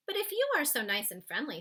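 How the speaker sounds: put-on a curious little girl questioning the giant; Sophie's voice. Girl asking the giant why he snatched her.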